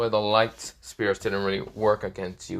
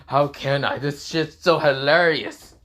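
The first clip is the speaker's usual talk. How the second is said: amused dragon; 5 semitones higher, 5 dB louder than usual. Acted. Drake can't stop laughing.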